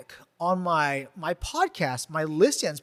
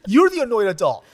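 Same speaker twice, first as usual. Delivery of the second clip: put-on excited kids; 5 semitones higher, 6 dB louder than usual. Kids excitedly recognizing the host.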